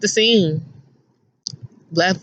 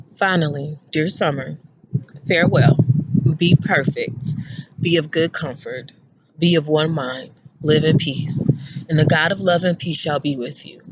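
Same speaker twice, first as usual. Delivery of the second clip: scripture reading; 4 semitones lower than usual. Shown as a demonstration.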